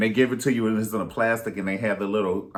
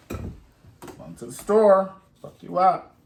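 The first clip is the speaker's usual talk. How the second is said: a bit higher, louder grandma warning; mock tough grandma; 7 semitones higher, 3 dB louder than usual. Grandma warning grandchild about the change, mock stern. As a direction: threaten like a sassy grandma.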